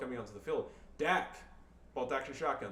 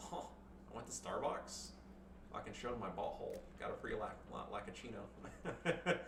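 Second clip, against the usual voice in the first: put-on lower, soft white-girl parody; 3 semitones lower, 6 dB quieter than usual. Gossiping about a trip to Starbucks, white-girl parody. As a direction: ramble like a white girl after coffee. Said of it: "sound like a white girl".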